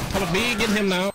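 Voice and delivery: put-on thick Asian accent, broken English; game callouts in a thick Asian accent. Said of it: "Stop with that accent".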